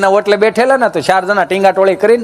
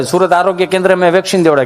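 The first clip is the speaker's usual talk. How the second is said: usual speaking voice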